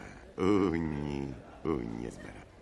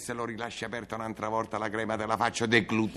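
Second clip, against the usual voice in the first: fast angry threat; 4 semitones higher, faster than usual. Acted. Escalating quarrel.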